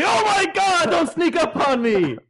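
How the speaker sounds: very high, hammed-up panic; mock a jumpy friend's shrieky overreaction; imitating startled housemate. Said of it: "he'll be".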